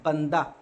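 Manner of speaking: बंदा ending in an open long aa; slow bandaa for बंदा; h as alif. Shown as a demonstration. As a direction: let the final he of बंदा sound as aa. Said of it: "आखिर में अलिफ लिखा है".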